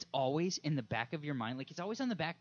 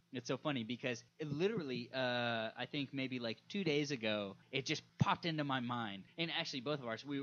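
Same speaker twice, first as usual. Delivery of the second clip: ordinary talk, nothing marked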